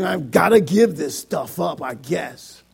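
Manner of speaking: acted resignation, dropping away at the end; reluctant obligation. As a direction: give in grudgingly, sinking to a mumble. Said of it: "Or of necessity".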